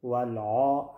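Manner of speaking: ولع wrongly said with a dark, backed "aw"-like vowel; faulty, short ولع; wrong heavy vowel. Shown as a demonstration. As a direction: thicken the vowel of ولع as a mistake. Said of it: "هم اشتباه است".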